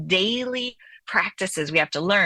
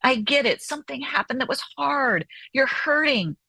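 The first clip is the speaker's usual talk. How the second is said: soothing parent; 4 semitones higher than usual. Retold or imitated. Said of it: "We soothe them".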